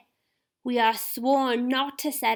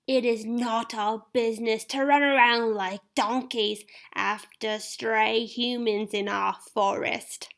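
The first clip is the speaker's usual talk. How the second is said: much higher, slow, scornful; an angry centaur rejecting humans; furious centaur; 7 semitones higher, slower than usual. Acted. Lane angry.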